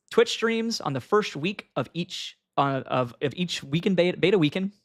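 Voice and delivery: talking around a retainer; slightly slurred with a retainer in; wearing a retainer. Real, not acted. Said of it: "this retainer is hard to talk with".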